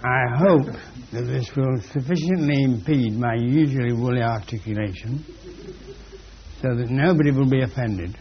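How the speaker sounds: talking around a peppermint; words slurred by a mint; mouth full. Real, not acted. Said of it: "talking with a peppermint in my mouth".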